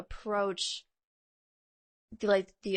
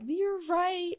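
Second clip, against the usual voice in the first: lightly voiced bride; 10 semitones higher than usual. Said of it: "she was like".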